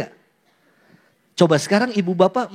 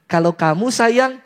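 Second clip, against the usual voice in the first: lovey-dovey reply. Acted. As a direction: drag the words out fondly. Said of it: "gantian dia ngomong gini".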